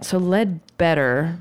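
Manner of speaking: slow, tentative southern accent. Shown as a demonstration. Giving in to co-host's request, southern accent. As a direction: ease into a southern accent, slowly. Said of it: "pronounced with a southern accent".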